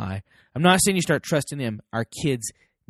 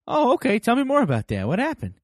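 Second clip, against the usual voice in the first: higher-pitched, curious follow-up questions; genuine interest; 9 semitones higher than usual. Acted. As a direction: draw them out with keen, lifted interest. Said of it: "that's genuine interest".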